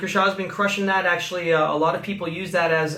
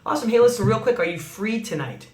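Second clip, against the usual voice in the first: upbeat invite; 4 semitones higher, faster than usual. Shown as a demonstration. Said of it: "Remember those two words, real quick".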